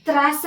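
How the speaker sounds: put-on "त्रास" broken up as "तराऽस", like a struggling young reader; children's misreading. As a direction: read "त्रास" haltingly with a vowel after त, stretched long. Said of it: "तिथं मुलं त्रास वाचतात".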